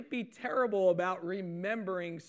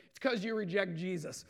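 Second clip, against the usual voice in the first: laughing. Retold or imitated. Blurting truth while shoveling, laughing.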